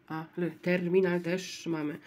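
ordinary delivery

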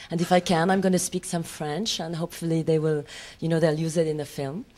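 playful French-accented storytelling. Shown as a demonstration. Actress tells of auditioning for a French role, French accent. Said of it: "I'm having trouble working that accent".

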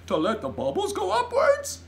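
loud, high, swooping giant tirade; giant's exasperated cry. A narrator's reading. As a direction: scold with comic exasperation and hoots. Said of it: "cried the B F G".

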